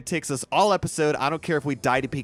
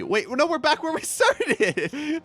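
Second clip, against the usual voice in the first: dismayed surprise; slower than usual. Real, not acted. Teleport lands back at start.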